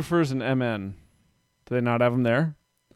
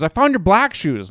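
put-on little girl's voice; 6 semitones higher, 5 dB louder than usual. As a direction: play the excited three-year-old. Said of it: "she goes".

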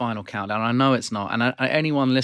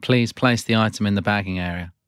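machine-like checkout announcements; self checkout prompts. Acted. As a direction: read it like a supermarket self-checkout voice. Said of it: "You are playing the character Prompt".

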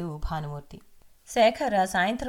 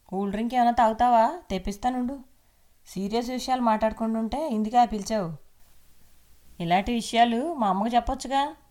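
higher, louder, dismissive; impatient husband; 5 semitones higher, 4 dB louder than usual. Acted. Husband annoyed at being called away, impatient and louder. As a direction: brush her off, impatient and loud.

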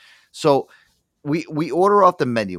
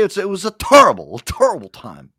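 a light Barkley voice, higher and louder on the first terrible; Charles Barkley impression; 7 semitones higher, 7 dB louder than usual. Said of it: "as Charles Barkley would say".

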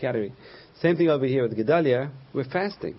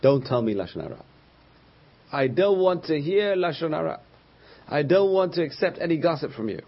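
higher, insistent acted refusal; firm refusal; 4 semitones higher than usual. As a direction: righteously shut the gossip down. Gedalia refuses to hear gossip.

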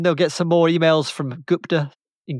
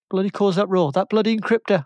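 higher-pitched indignant exclamation; a touch of mock outrage; indignant outburst; 5 semitones higher than usual. Acting out the uproar over the encryptor, indignant. Mimics public outrage at the hoax.

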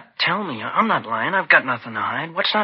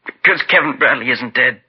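louder, forced out in one burst; blurted confession; 5 dB louder than usual. Acted. Boy blurting the truth to the detectives, loud and sudden. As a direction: finally blurt out the secret.

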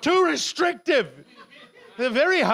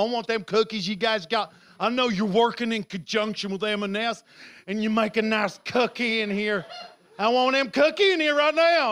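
hammed-up Southern American customer; Southern American accent. Customer demanding cookies in shop, Southern American accent. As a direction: order like a mock Southern American. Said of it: "And you talk like that".

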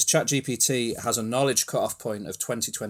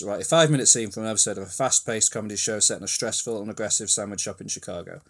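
quick reread; 3 semitones lower, faster than usual. Shown as a demonstration. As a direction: prompt rattled off fast as a recap. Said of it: "as a reminder".

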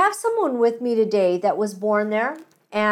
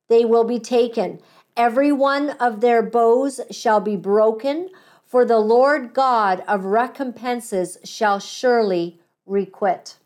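scripture reading. Acted. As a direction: read the verse out phrase by phrase with pauses. Reads scripture aloud.

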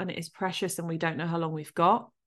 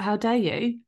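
retold indignant cry, pitched up; angry outburst; 5 semitones higher than usual. Daughter to her lost dad, angrily retold. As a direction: replay the outrage at being left. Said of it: "so fucking angry at him".

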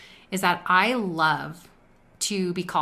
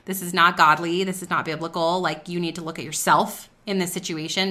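a scolding inner voice reining her in; stern rebuke to a middle schooler; stern warning; 3 dB louder than usual. Retold or imitated. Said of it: "Holy Spirit said".

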